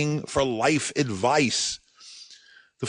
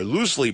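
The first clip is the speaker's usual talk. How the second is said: loosely leaned on for emphasis; stress on loosely. Shown as a demonstration. Podcaster stressing loosely to listeners, leaning on it. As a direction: press on the word loosely. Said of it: "emphasis on the word loosely".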